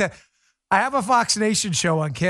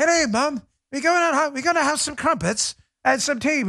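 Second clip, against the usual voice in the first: put-on higher, kid putting on British accent; mock British accent; 5 semitones higher than usual. Host imitates American kids asking Mom, mock British accent. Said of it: "I get my accent is bad".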